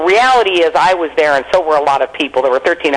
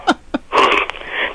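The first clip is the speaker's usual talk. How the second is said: laugh; 3 dB quieter than usual. Real, not acted. Laughing after own story.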